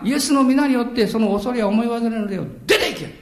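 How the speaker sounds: firm, emphatic order to a spirit; commanding declaration. Shown as a demonstration. Preacher showing believers how to order spirits out, commanding. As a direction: declare it with authority, punching the final commands. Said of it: "宣言する必要があります".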